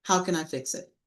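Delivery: soft, calm How can I fix it; gentle helpful question; calm offer. Shown as a demonstration. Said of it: "Or very calmly say".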